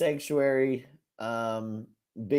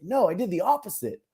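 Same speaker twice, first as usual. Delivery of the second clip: laughing; 7 semitones higher, 4 dB louder than usual. Retold or imitated. Laughing imitation of crying.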